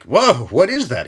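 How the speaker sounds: high, slow wonder at the taste; amazed whoa. Retold or imitated. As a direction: savor the surprise out loud. First taste of horilka.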